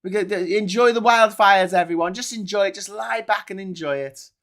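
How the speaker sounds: a hint of breezy, indulgent mockery; Richard Tice. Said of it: "you got Richard Tice there saying".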